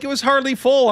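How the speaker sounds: high innocent excuse. Retold or imitated. Boy to lunch lady, pleading innocence, high and mock-innocent. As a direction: play dumb in a high squeaky voice.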